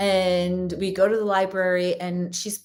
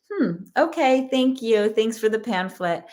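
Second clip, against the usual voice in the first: fake-smile politeness. Mother thanking the librarian for a pamphlet, fake-polite. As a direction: put on a smile to hide irritation. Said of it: "like, a fake smile".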